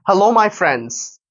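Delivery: very slow, each word apart; slow careful copy. Shown as a demonstration. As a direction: repeat it slowly like the podcast. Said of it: "এখানে যেভাবে বলেছে, ঠিক সেভাবে".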